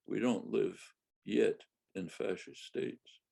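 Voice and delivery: YET set apart after a short pause; stress on YET. Real, not acted. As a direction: lean deliberately on the word "yet". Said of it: "I stress the word yet".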